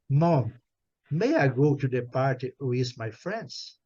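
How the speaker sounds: slow polite request. Shown as a demonstration. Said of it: "quando você quer pedir uma coisa com mais educação".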